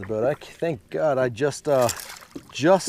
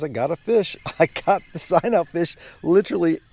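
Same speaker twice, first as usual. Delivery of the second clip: excited; 6 semitones higher, 5 dB louder than usual. Real, not acted. Final catch, thrilled.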